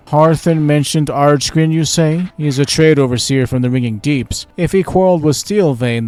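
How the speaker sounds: lightly voiced worried leader; NPC official.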